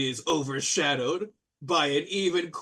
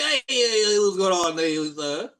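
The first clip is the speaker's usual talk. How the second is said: brash host welcoming the party, petering out; Blue Blairy. Acted. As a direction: boom the hellos, then trail off awkwardly. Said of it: "He's like".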